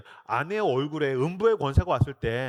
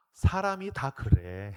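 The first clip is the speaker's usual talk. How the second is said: put-on slow, deadpan child wisdom; slow pronouncement; 3 semitones lower, much slower than usual. Youngest daughter solemnly telling her mother, slowly. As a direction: say it slowly like a little sage.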